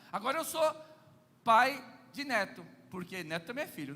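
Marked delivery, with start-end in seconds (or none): none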